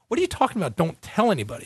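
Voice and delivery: can't believe what he's hearing, voice jumps high; half-mocking retold disbelief; incredulous. Disbelief at Red Bull's offer.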